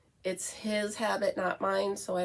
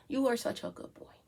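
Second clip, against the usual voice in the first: doggy praise; 3 semitones higher, 4 dB quieter than usual. Real, not acted. Praising her dog.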